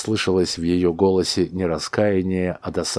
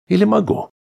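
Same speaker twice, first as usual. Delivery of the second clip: sarcastic; 6 dB louder, faster than usual. A narrator's reading. Husband mocks sarcastically.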